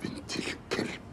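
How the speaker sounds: muttered whispered curse; cursing whisper. Acted. Husband cursing the informer in a whisper. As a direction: curse her under your breath.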